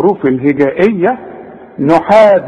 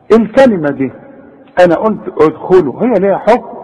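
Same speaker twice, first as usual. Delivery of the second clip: normal talking voice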